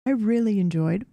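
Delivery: talking with a mouthful of food; mouth full. Real, not acted. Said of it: "I did not mean to speak with my mouth full there".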